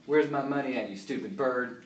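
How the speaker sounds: lightly voiced blacksmith; blacksmith's voice. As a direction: demand it with a hint of a gruff tradesman. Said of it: "blacksmith's voice".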